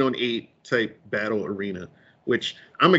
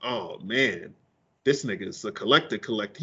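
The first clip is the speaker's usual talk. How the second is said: low, softer, quick aside; quiet aside; 7 semitones lower, 7 dB quieter than usual. Retold or imitated. About the friend, a quiet amazed aside. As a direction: say it under your breath, quickly.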